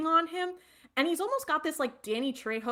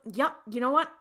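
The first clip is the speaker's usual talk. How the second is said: louder, fast, overly bright brush-off; hasty cheery apology; 7 dB louder, faster than usual. Retold or imitated. Dean apologizing to the shop owner while backing out, loud and fast. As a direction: rush the sorry and get out the door. Hurried apology then quick exit.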